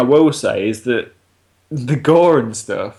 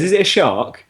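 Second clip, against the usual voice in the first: high, giggling mock-innocent question; can barely get the line out for laughing; quoting the girl while cracking up; laughing through a quote; 7 semitones higher than usual. Retold girl's dumb guess.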